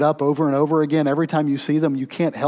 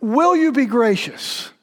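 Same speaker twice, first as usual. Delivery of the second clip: humbled plea; 8 semitones higher, 4 dB louder than usual. Pretend. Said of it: "You say".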